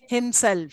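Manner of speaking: "himself" with the accent on SELF; stress on SELF. Shown as a demonstration. Teacher giving another compound example, stress on SELF.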